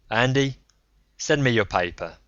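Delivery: a rough self-made man ribbing him; Braun, gruff old gambler. Acted. Braun on the phone.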